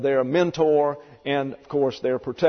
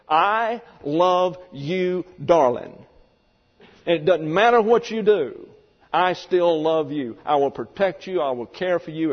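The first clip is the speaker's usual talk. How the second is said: tender vow; 2 semitones higher than usual. Pretend. Husband reassuring his wife, lightly tender.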